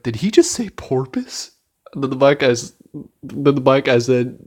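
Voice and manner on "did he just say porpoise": incredulous quote. Retold or imitated. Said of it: "the football player guy's like".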